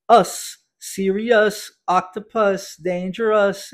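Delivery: "us", "serious", "octopus", "dangerous" with the ending said as a clear "us"; pronunciation demo. Shown as a demonstration. Teacher modelling the "us" ending for students, slow and clear. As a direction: stretch each word slowly so the ending sounds "us". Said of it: "a pronúncia de O, U, S como som de us".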